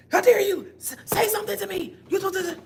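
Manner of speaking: high, loud indignant accuser; mock outrage. Imitating an offended accuser scolding you, high and loud. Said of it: "Like that, that kind of way".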